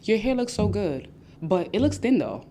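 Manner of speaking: sugary gush that sours at the end; backhanded compliment. Retold or imitated. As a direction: fake sweetness, then the dig. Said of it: "They'll give you backhanded compliments".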